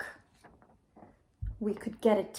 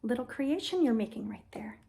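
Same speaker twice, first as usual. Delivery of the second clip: whisper; 4 semitones lower, 5 dB quieter than usual. Acted. Gentle puppet play narration.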